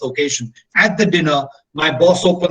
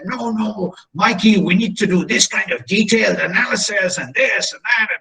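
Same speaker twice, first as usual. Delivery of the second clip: irritated; 3 semitones higher than usual. Retold or imitated. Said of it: "the German got very irritated".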